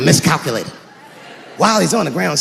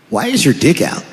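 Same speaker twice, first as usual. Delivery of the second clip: dumb last words; 4 semitones lower than usual. Acted. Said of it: "their last words are always the dumbest words".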